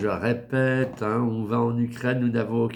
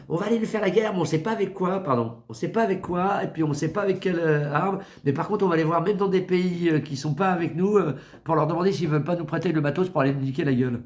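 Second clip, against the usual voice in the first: higher, mocking quote of the leader; mocking the president; 4 semitones higher, faster than usual. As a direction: mimic him as a clueless boaster. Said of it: "il dit".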